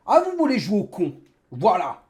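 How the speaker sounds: furious rant at viewers; raging gamer. Real, not acted. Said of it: "c'est ma rage qui parle".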